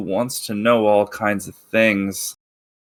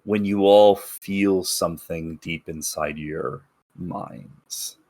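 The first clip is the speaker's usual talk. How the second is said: dramatic narration. A narrator's reading. GM scene setting.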